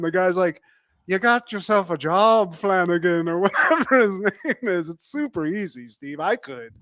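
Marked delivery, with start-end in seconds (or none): 1.1-3.3 lightly put-on Irish brogue; mock Irish accent. Factory guy handing Flanagan a job, mock Irish accent. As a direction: play the Irish boss with a hint of brogue. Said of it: "said three things in an Irish accent".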